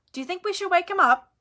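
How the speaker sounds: put-on hesitant teenage boy; awkward Ron. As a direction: ask it awkwardly, not wanting to intrude. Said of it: "Ron asked awkwardly".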